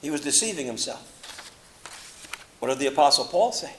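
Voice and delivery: normal talking voice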